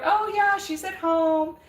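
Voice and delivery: lifted, bright retelling of her own answer; mimicking how she answers people who ask about her daughter, cheerfully; cheerful reply. Friend repeating her reply to curious people, lightly mimicked. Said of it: "I say".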